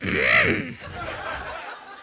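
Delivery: high raspy throat-clear as Marge; a high, unvoiced Marge-style throat-clear; Marge Simpson agreeing. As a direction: clear your throat like a cartoon mom agreeing. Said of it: "That's Marge Simpson agreeing with you".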